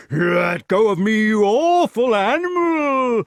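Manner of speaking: loud, high, rising giant's wail; drawn-out panicked protest; alarmed cry. A narrator's reading. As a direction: yell as if bitten. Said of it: "cried the giant".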